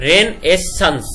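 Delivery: রেন এস সান্স split into three chunks; sounding out words. Shown as a demonstration. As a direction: break রেনেসান্স into রেন, এস, সান্স. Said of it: "বানান করার সময় বলবা".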